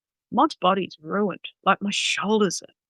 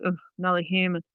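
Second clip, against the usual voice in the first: flat sad dog; 6 dB quieter, faster than usual. Retold or imitated. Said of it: "those really flat, sad dogs".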